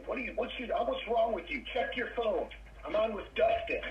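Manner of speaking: fake-angry dad telling off his son; pretend mad. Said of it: "I'm gonna pretend to be mad at him".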